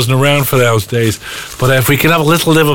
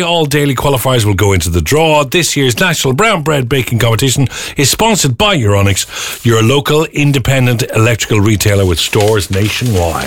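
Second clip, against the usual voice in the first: radio ad read. Acted. Sponsor read on air.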